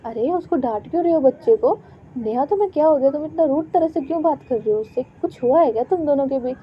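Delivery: put-on a mother reprimanding her child; scolding.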